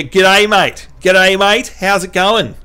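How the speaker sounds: hearty Australian greeting; broad Australian. Shown as a demonstration. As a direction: put on an Aussie mate's hello. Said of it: "can you say it more Australian".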